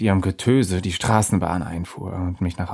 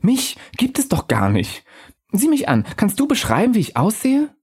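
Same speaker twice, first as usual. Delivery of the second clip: higher, airy spirit voice, calm and knowing; a lightly raised ghost voice musing to the narrator; ghostly Undine; 12 semitones higher than usual. Acted.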